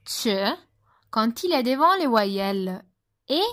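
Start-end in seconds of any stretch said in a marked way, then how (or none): 0.1-0.5 "che" dit « tche »; C doux italien. Shown as a demonstration. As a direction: attaque "che" par un t, tch. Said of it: "Se prononce". (« che » prononcé tch, devant E et I)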